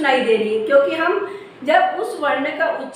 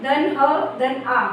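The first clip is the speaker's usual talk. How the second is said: slow spelling; slower than usual. Shown as a demonstration. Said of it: "तो ह में आ की मात्रा आई".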